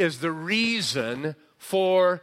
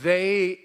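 "they" punched out louder; emphatic THEY; 5 dB louder than usual. Shown as a demonstration. Preacher showing the Greek emphasis, emphatic THEY. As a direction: hit "they" hard as one stressed word. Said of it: "it's emphatic".

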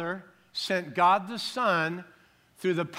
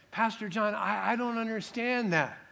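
lightly voiced confused churchgoer, higher pitch; puzzled congregant; 5 semitones higher than usual. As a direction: imitate a listener stammering in mild confusion. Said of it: "You say".

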